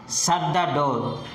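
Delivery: focus on "Shut", falling away through "the door". Shown as a demonstration. Teacher modelling focus word for learners, falling tone. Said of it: "shut is the focused word".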